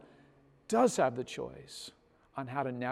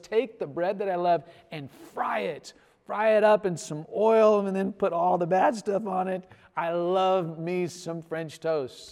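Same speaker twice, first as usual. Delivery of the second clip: mock-rapturous, rising eagerness; hammed-up food lover's enthusiasm; excited yes; 3 semitones higher, 4 dB louder than usual. Acted eager answer to wife's offer.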